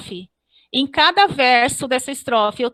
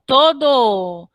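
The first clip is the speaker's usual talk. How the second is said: "Todo" run on into a joined, lengthened final vowel; "Todo" with no break at the last vowel; elision demo. Shown as a demonstration. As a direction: hold the end of "Todo" as one fused sound. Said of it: "Então, não há separação".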